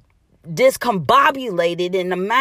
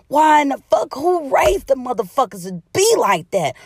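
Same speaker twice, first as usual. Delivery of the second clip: louder, higher, fed up; exasperated outburst; 4 semitones higher, 4 dB louder than usual. Real, not acted. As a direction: throw the question out in disbelief. Exasperated rant at liars.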